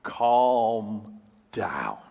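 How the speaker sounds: whispered calm down; whispering calm down. Pretend. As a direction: breathe it out, unvoiced. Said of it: "he will say to you in essence".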